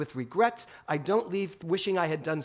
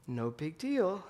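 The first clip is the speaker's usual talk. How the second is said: put-on softer, hesitant child's voice; less sure little boy; 5 dB quieter, slower than usual. Son repeating it to his silent mother, less sure. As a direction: let the certainty slip. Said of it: "but not as sure of himself".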